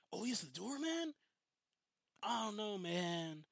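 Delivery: high-pitched incredulous partygoer; mock surprise. Retold partygoer doubting the doorman.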